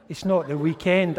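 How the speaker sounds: mock the wife's protest, loud; wife's loud objection. Wife objecting in retold story.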